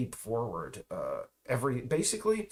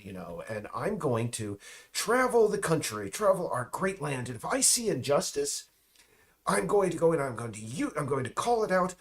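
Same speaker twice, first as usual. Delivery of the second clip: put-on eager, raised-pitch young Marxist, a touch fast; mock the starry-eyed graduate setting off to save the land; lightly voiced earnest student, pitch up; idealistic student; 4 semitones higher than usual. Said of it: "they're like".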